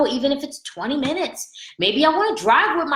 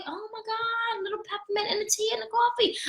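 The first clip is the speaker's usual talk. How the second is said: giddy excitement; 9 semitones higher, 8 dB quieter than usual. Retold or imitated. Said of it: "I'm like".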